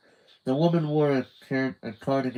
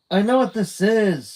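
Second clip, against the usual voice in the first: higher, louder sudden realization; excited cry; 10 semitones higher, 7 dB louder than usual. A narrator's reading. Carmen crying out her discovery to Judy. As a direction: blurt out the discovery. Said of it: "she cried".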